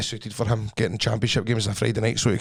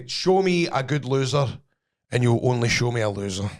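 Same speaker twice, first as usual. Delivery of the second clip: drawn out, deliberate quote; quoted motto; slower than usual. Retold or imitated. Footballer's motto retold to mates, slow and deliberate. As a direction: deliver the saying slowly, word by word. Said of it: "he says".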